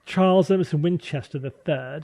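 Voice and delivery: put-on upper-class Boston accent; rich Boston accent. Naming the doctor from MASH, rich Boston accent. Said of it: "the rich Boston accent was".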